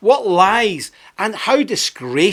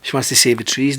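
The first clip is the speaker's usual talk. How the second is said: softer, pitying mock voice; mock sympathetic folks; 5 semitones lower, 5 dB quieter than usual. Sympathisers pitying the girl, mock soft coo. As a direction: coo it like a soft-hearted fan. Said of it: "a lot of folks say".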